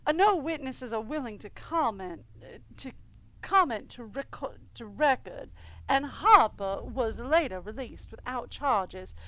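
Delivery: steady newsreader delivery of the article; a lightly voiced news anchor; news read. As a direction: read it like a local news report. Reads in-game newspaper aloud.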